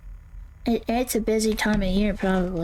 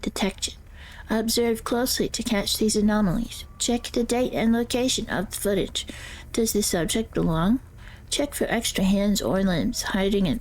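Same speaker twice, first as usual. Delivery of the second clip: character voice. Acted. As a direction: guide narrator voice, eerie and measured. Reads ghost-hunting guide in character.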